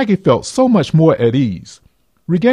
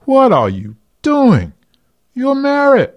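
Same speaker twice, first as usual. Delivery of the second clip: inner conscience; 10 semitones higher, 3 dB louder than usual. Acted. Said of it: "her conscience spoke to her within".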